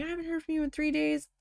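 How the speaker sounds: imitated scolding, starting high and easing down; mock yelling. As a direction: retell mom's telling-off with a mild yell. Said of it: "'Cause she was yelling".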